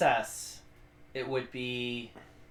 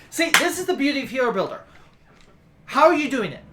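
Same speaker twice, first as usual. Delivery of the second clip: excited aside; 8 semitones higher, 6 dB louder, faster than usual. Real, not acted. GM praises the system.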